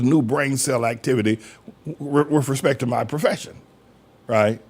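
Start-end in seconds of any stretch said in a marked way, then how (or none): none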